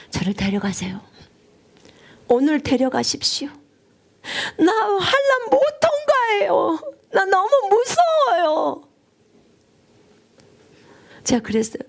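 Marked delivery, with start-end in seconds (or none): 0.1-3.5 hushed pleading whisper; whispered plea. Retold or imitated. Preacher retelling her plea to God to take her, whispered. 4.6-8.8 slow, much higher sobbing plea; crying in fear. Retold or imitated. Preacher reliving a frightened prayer to God, tearful sobbing.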